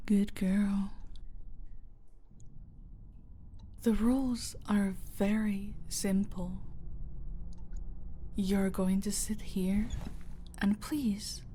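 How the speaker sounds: soft, patronising whisper; sinister whisper. Acted. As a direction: explain the rules like a lullaby. Villain explaining deadly game.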